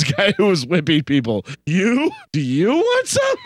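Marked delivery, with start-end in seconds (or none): 1.7-3.4 high, rising mock shout; acted challenge. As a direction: imitate a hero picking a fight. Acted challenge from retold film hero.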